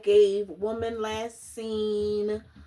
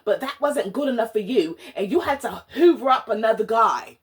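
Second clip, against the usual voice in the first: mock British accent; 5 dB louder than usual. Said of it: "Pretty much she was saying".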